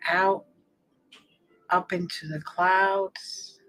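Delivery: unhurried meditation guide, long pauses between phrases; guided meditation. Real, not acted. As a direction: ease the listener into relaxing, phrase by phrase.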